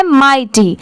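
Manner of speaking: माइटी with a falling end; pronunciation demo. Shown as a demonstration. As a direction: model माइटी for learners. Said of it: "इसकी pronunciation यहाँ पर क्या है?". (माइटी का साफ़ उच्चारण)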